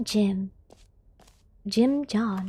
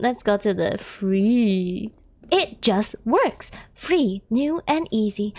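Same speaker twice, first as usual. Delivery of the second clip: very slow mock commercial read; 4 semitones lower, much slower than usual. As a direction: drawl it like an ad. Mock ad voice reading.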